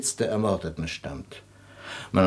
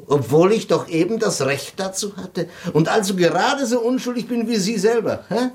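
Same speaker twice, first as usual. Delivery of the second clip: mocking laugh; 12 semitones higher than usual.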